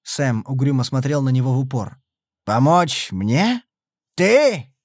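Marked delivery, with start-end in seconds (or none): 2.5-4.7 irritated snort. A narrator's reading. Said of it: "раздражённо фыркнул он".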